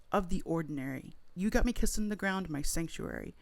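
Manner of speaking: dramatic poetry reading of half-remembered lyrics; spoken word. Pretend. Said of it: "perform a spoken word poem of your version".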